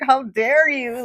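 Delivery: high, loud, slow indignant cry; hammed-up wounded indignation; offended outrage. Retelling her reaction to her friend's cold words, outraged. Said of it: "I remember just getting so angry".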